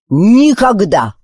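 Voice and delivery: slow, drawn-out shout of never. Acted. Encanzo shouting at Wish, slow and loud. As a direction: bellow the refusal. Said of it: "закричал Энканцо".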